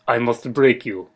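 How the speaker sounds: slow, low Russian movie-villain voice; Russian accent. Acted. Co-worker relieving someone for a break, slow Russian accent. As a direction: do a heavy, deliberate Russian accent. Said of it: "say in a Russian voice".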